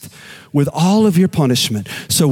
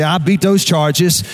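slow declaration for repeating; slower than usual. Shown as a demonstration. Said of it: "elbow somebody, say".

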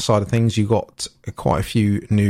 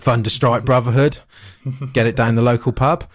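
lightly Cockney Thunderstrike Brotherhood; a hint of London Cockney; Cockney accent. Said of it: "Cockney accent came from there".

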